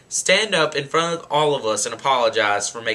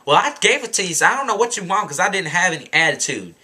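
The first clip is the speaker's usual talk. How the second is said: defensive attitude; 3 semitones higher, faster than usual. Retold or imitated. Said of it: "so she's still like".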